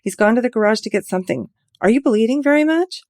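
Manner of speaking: high, loud worried shout. Acted. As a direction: call down to someone below. Shouting down to injured man.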